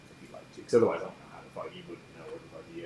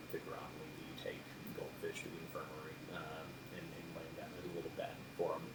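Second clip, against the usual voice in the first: ordinary talk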